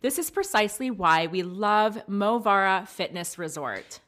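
upbeat sponsor read; podcast ad read. Acted. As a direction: sell the resort warmly.

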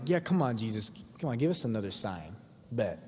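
mock taunt that drops low and quiet; demeaning, mocking. Pharisees goading Jesus for a sign, demeaning and mocking. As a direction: dare him offhandedly, dismissively. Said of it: "hear the demeaning tone".

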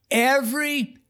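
slow, high, reverent telling; awed. Real, not acted. Preacher tells the miracle's climax, slow and awed. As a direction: let the wonder land slowly.

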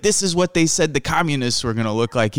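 light Chicago Italian mock rant; dad's Chicago Italian. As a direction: grumble like a Chicago Italian father. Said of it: "very deep Chicago Italian broken English".

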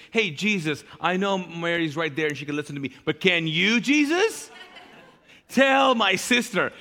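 tattle to Jesus about her sister; passive-aggressive complaint. Retold or imitated. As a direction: Martha whining to Jesus about Mary. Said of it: "you go to Jesus".

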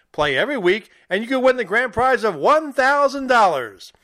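upbeat radio ad read; booming prize announcer. Acted. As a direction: sell it like a contest promo. Recorded football contest ad read.

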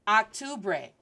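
octubre as "ahk-TOO-bray"; wrong pronunciation. Shown as a demonstration. Teacher showing what to avoid, octubre with English "ah". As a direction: open the first vowel of octubre like English October. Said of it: "it's not".

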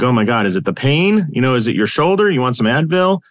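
retold fussing, pitch climbing with each question; concerned wife. Wife checking on her crying husband, mildly worried.

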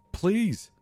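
very high loud shrieked please; shrieking. A narrator's reading. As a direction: shriek it in terror. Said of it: "Becca shrieks".

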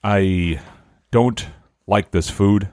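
slow, halting, polite mock critic; measured, with long careful pauses; calm critique. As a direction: lightly imitate a composed TV host judging food. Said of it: "a little bit more, like, calm".

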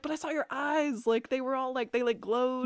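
a hint of a high, suspicious teen; mock Tyler. Tyler voiced in recap.

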